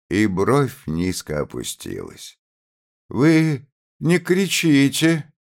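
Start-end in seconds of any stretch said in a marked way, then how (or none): 3.1-5.3 a loud, slow, high outburst of a trembling mother; trembling with hatred. A narrator's reading. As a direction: hold back hatred but it bursts out high. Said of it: "заговорила она".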